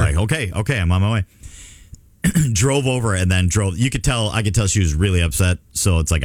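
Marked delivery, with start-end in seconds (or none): 0.2-1.2 respond as if already heading out; more urgent response. Retold or imitated. Dad answering his wife's call about the accident, mildly urgent. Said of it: "I was a little more".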